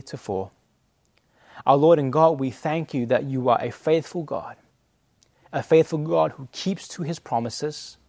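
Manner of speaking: earnest, measured closing prayer. Acted. Pastor leading the church in closing prayer, earnest. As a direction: pray over the congregation, steady and sincere.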